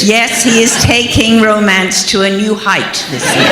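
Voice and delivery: dry, loud sarcasm with a laugh; mock praise for the husband, laughing; sarcastic jab about her husband's romance. Real, not acted. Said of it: "when you say something sarcastic".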